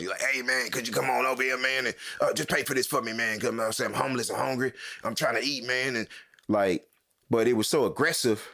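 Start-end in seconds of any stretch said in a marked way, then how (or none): 0.2-6.0 imitating a hoarse man who lost his voice; strained, voiceless-sounding begging, put on; lost-voice impression. Man begging a shopper for food money, imitated lost voice. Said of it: "like he lost his voice".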